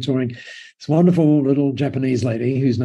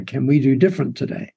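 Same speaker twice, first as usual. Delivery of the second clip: put-on lightly suggested Japanese accent; a hint of a Japanese accent in retelling; imitated Japanese accent. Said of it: "in this lovely Japanese accent".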